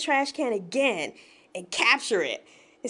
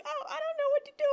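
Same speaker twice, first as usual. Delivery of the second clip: mock helplessness; 13 semitones higher, much faster than usual. Doctor faced with a cockroach, mock helpless. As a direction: imitate someone at a total loss. Doctor panicking beside the narrator, retold.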